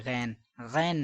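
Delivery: short غین as "ghen"; wrong pronunciation. Shown as a demonstration. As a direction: say غین without the long glide. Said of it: "نہیں ہے".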